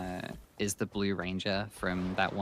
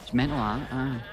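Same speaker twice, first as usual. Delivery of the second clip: broad, slurred Scots chatter; thick Scottish; 3 semitones higher than usual. Retold or imitated. Friends sucked into the Scottish vortex, broad Scots. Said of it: "what we like to call the Scottish vortex".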